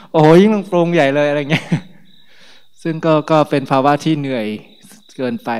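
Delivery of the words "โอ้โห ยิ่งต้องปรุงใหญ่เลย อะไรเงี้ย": laughing. Real, not acted. Laughing at the sweaty faces.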